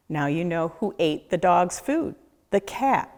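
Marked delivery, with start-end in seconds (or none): none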